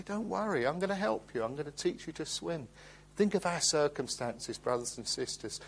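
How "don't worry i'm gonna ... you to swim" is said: reassuring dad. Retold or imitated. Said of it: "And I say".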